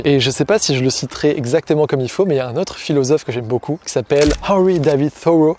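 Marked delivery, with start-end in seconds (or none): 4.5-5.6 Henry David Thoreau said in an English accent; a French speaker putting on English for Henry David Thoreau. Shown as a demonstration. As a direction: give the name a proper English accent. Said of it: "avec le bel accent anglais".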